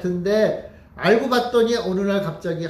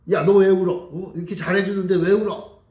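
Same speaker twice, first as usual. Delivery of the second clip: mock scolding, louder on the opening; exasperated parent; 4 dB louder than usual. Parent asking the crying baby why, mildly exasperated. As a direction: act out a puzzled parent telling off a baby.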